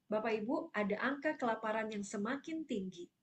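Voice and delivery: smiling presenter's delivery of bad news; mildly pleasant, mismatched smiling tone; with a smile. Shown as a demonstration. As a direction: say the grim figure through an inappropriate smile. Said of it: "Tapi kita pakai senyum".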